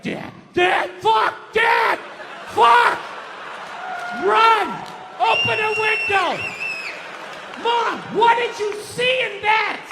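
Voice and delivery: put-on panicked kid yelling. Scared kid screaming to flee his dad, frantic and loud. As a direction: yell like a terrified kid fleeing his dad.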